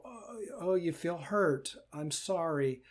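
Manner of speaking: soft, tender consoling; soothing the hurt part. Shown as a demonstration. Teacher soothing her own hurt part, soft and tender. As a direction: comfort a hurting child gently. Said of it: "I'll just talk to the hurt".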